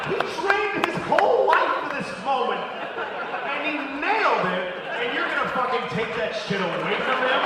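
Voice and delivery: high, loud indignant yelling; outraged shout. Retold or imitated. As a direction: defend the pilot at full volume. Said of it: "I'm like".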